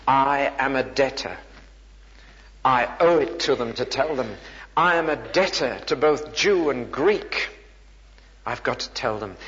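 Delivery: a touch of urgent conviction; measured, emphatic declaration of a glad obligation; eager good-news bearer. Acted. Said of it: "you talk like this".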